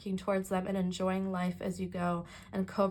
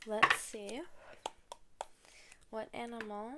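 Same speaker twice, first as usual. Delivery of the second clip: ASMR whisper; 9 dB quieter than usual. Acted. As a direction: hush it down for ASMR. ASMR section continues.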